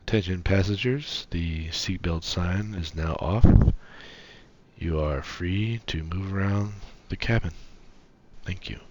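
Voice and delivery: calm cabin announcement over the intercom; pilot announcement. Acted. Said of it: "Did you like my captain impression?".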